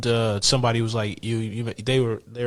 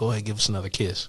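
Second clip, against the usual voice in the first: mock whispered voice; 4 dB quieter than usual. Retelling a quick request whispered to a guest during filming: imitating a whisper. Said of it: "whisper to him real quick".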